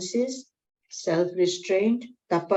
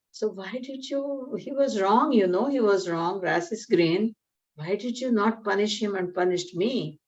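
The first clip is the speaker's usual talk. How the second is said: sad, upset tiger; 2 semitones higher than usual. Acted. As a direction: plead your case as the wronged tiger. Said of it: "He's so sad, upset".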